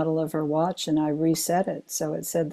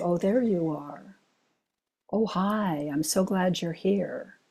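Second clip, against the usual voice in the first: glad greeting. Retold or imitated. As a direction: greet them as if you'd been waiting. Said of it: "magic thing that happens of".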